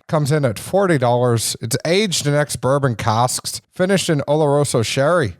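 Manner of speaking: faintly faked Irish accent; bad Irish accent. Host listing whiskey specs, half-hearted Irish accent. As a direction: keep up a poor Irish accent through the details. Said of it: "I was using an accent that wasn't very good".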